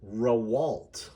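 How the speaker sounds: Rawalt said "ruh-WALT", second syllable stressed; hesitant "ruh-WALT?" guess at Rawalt; mispronounced surname. Shown as a demonstration. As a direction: read Rawalt wrong, leaning on WALT with a rise. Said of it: "People will look at this and say".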